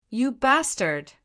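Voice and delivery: high, drawn-out angry cry, not full volume; furious shout. A narrator's reading. Stone Emperor insulting Ling Han over his blood, furious. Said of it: "shouted in fury".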